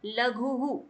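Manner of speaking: लघुहु said with a breathy hu echoing the u at the end; visarga with echo vowel. Shown as a demonstration. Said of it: "यानी हम इसको कैसे पढ़ेंगे?". (लघुहु, अंत में उ की गूंज के साथ हु बोलें)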